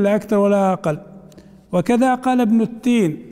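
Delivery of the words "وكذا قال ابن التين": normal talking voice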